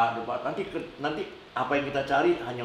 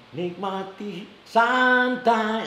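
high, slow rocker wail; 7 semitones higher, 5 dB louder, much slower than usual. Retold or imitated. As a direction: belt it like a rocker. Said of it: "si rocker itu".

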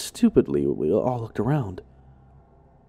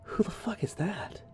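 mumbled; 7 semitones higher, 12 dB quieter than usual. Retold or imitated. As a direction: mutter it under your breath, unsure. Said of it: "I mumbled".

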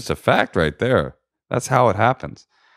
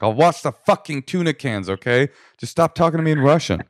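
higher-pitched exasperated giving in; mock exasperated; 7 semitones higher than usual. Husband begging her to drop the Russian, mock exasperation. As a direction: give in like a pestered husband, pitched up.

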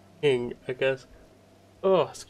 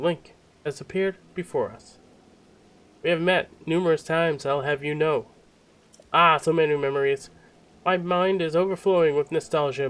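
higher, declamatory royal recognition; hammed-up king, pitched up; grand theatrical king; 6 semitones higher, 5 dB louder than usual. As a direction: proclaim it like an astonished monarch. Voices the king's dialogue.

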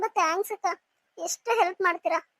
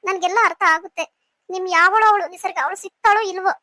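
angry retort; 5 dB louder than usual. Acted. Wife shouts back in quarrel.

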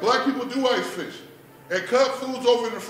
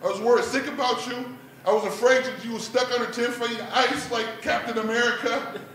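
mildly raised, scolding rant; pissed-off dad; 3 semitones higher than usual. Acted. Dad scolding daughter next day, hurt and annoyed. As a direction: scold her in a higher voice. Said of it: "now I'm living pissed off".

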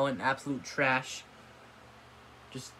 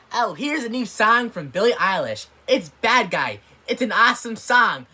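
mock radio host; 6 semitones higher, 7 dB louder than usual. Mocks radio host announcing song.

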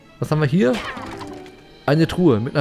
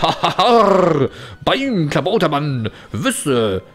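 pirate captain laugh; much slower than usual. Pretend.

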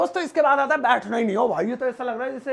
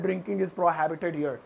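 slow, lower model sentence; slow demo; 4 semitones lower, much slower than usual. Shown as a demonstration. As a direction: say it slowly and clearly. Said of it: "दारू पीना बिल्कुल मना है". (धीमे और साफ़ उदाहरण)

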